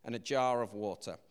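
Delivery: measured, even Bible reading voice; scripture reading. Acted. Preacher reads the Elijah passage aloud to the church, in a measured reading voice. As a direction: read the passage steadily to the congregation.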